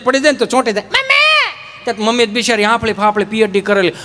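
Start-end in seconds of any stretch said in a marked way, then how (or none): 0.9-1.8 high wail for mummy; child crying out. Retold or imitated. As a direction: call out like a hurt kid. Fallen child crying for mom.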